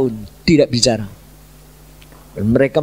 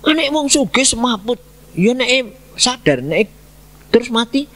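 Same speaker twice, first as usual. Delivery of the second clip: anxious worry; 9 semitones higher than usual. Retold or imitated. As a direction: worry aloud "Anak wong sugih semaput", leaning on "anak". Fear the boy may die. ("Anak wong sugih semaput" diucapkan tinggi, lambat dan cemas)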